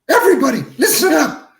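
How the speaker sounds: imitated director rallying a crowd; mock announcement to all the extras; calling to extras. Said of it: "he was calling, talking to the atmosphere".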